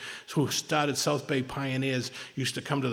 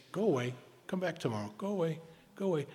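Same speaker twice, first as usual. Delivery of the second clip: brushing off; 3 semitones higher, 6 dB quieter, faster than usual. Shown as a demonstration. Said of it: "you just say".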